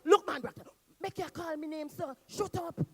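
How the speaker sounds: loud, high, heated shout; shouted quarrel. Acted. Anansi yells at Brat Kuma over the bag, loud. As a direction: yell at your greedy partner.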